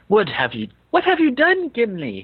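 rising curious surprise; curious question. A narrator's reading. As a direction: ask it curiously, head cocked. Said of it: "he asked, cocking his head curiously".

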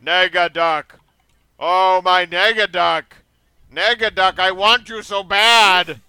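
high, loud screaming duck cries; squeaky rubber duck. Acted. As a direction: scream it like an overacted cartoon duck. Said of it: "kept screaming".

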